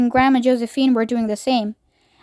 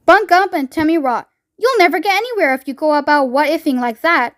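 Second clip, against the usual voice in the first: eccentric chocolate maker; 2 semitones higher than usual. Acted. Wonka's voice in story reading.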